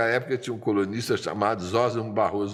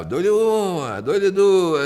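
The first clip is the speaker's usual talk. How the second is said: auctioneer; 7 semitones higher, 5 dB louder, much slower than usual. Retold or imitated. Auctioneer calling bids.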